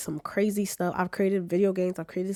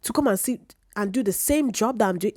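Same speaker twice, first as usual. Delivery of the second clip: higher, stammering disbelief; answering the boss, higher and stunned; incredulous; 5 semitones higher than usual. Retold or imitated. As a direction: sputter in disbelief. Incredulous reply to bosses.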